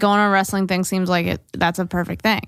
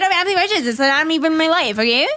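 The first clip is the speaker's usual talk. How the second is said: mock exasperated rant; 5 semitones higher than usual. Mock diva rant, laughed at.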